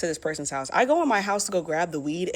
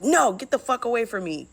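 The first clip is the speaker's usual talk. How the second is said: snapping; 6 semitones higher than usual. Retold or imitated. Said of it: "I, like, snap at them".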